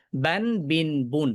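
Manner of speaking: slow বান বিন বুন, each ending on a clear ন; teacher spells out বান বিন বুন slowly and carefully; tanween demo. Shown as a demonstration. Teacher recites the three tanween sounds for students, slowly. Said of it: "এর উচ্চারণটা হচ্ছে এটা".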